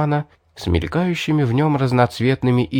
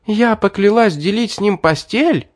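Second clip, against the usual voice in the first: outraged; 12 semitones higher than usual. Acted. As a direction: spit it out in disbelief. Outraged question.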